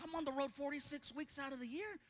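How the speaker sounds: reply meekly, up in pitch; sheepish reply. Retold or imitated. His reply to the doctor.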